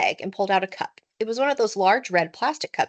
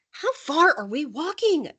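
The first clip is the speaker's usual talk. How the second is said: grunted question; 7 semitones higher, slower than usual. A narrator's reading. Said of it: "grunted Scott".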